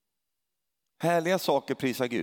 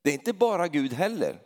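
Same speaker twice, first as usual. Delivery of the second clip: usual speaking voice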